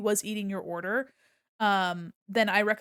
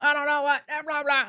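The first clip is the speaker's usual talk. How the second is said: put-on higher, loud dismissive mumble of a confused old man; mocking a flustered customer; 5 semitones higher, 6 dB louder than usual. Clerk mimicking the customer's confused brush-off, high and loud. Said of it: "And he's like".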